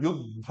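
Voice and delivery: युद्ध with the final dha sounded with its vowel; full final vowel. Shown as a demonstration. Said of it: "स्वर सहित बोल रहे हैं".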